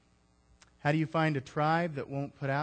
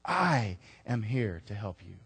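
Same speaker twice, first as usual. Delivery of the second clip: gentle repeat; 4 semitones lower than usual. Acted. I am here to help you.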